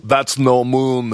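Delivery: put-on slow, hesitant go at an Austrian accent; Arnold Schwarzenegger. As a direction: draw it out in a mock Austrian accent. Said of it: "Have a go, though".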